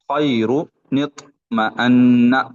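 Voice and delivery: अन्ना with the doubled न held in a nasal hum; ghunna on noon. Shown as a demonstration. Teacher demonstrates ghunna on the doubled noon of अन्ना. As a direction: hold the ज़ीन न of अन्ना through the nose before opening. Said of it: "यहाँ पे नून गुन्ना होगा".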